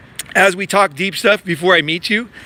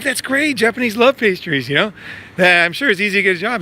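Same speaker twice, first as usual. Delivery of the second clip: excited reply; 4 semitones higher than usual. Retold or imitated. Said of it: "I'm like".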